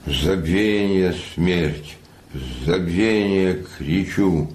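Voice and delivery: slow, solemn poetry reading; poem recitation. Acted. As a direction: recite the sonnet gravely. Recites sonnet 66.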